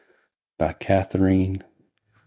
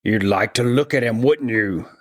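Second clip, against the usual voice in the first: higher put-on voice, coaxing; coaxing sister; 4 semitones higher, 3 dB louder than usual. A narrator's reading. Sister offering Laura a look at the body, coaxing. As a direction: invite the visitor in a raised character voice. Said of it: "said M's sister".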